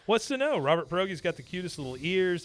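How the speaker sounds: put-on high, gushing girlish voice. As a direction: swoon over him like a teen. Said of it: "she says".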